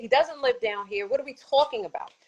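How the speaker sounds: high, indignant protest; retold outrage. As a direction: pitch up, pushing back hard. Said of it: "I'm getting pissed off".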